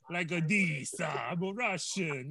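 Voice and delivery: imitating an actress's bad Russian accent, slowly; mock Russian accent. Mocking an actress's accent to podcast friends, in a hammed-up Russian accent. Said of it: "She talks like".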